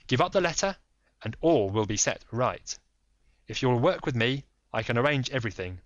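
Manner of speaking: lightly voiced firm detective; Holmes. Holmes pressing the lady, lightly voiced firm.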